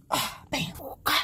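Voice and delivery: breathy sleepy groan; groaning sleepily. Acted. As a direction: moan it like he's half asleep. Adam groans in his sleep.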